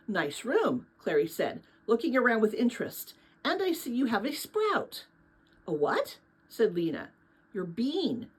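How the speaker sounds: steady storytelling voice reading a novel aloud; story narration. A narrator's reading. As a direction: read it like a bedtime chapter book.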